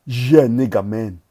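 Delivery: loud, hyped cheer; loud hyped shout. Real, not acted. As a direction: shout it in triumph. Hyped exclamation.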